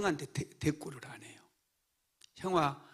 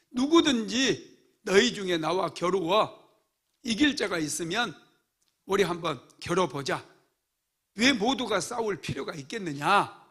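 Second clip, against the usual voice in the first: taunting giant; 3 semitones higher than usual. Retold or imitated. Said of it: "이러면서".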